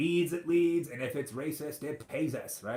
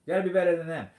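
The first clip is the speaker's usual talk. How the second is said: louder insistence; 5 semitones higher, 8 dB louder, much faster than usual. Real, not acted. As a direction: repeat it louder, leaning on better. Repeats the appeal with more force.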